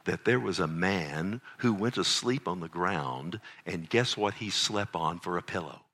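acted dad telling a Bible wonder; storytelling to child. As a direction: draw a child in with a teasing tale. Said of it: "I would say".

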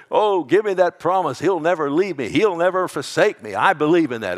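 loud, high, rousing deathbed declaration; fervent crying out. Pretend. Preacher acting his own deathbed plea for God's promise, fervent cry. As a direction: cry out the promise with full conviction. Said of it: "I'm gonna cry. I will say".

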